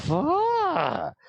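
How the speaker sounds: swooping cackle with a long drawn-out ah. Voicing a woman eyeing the closest character: cackling. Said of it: "as she cackles".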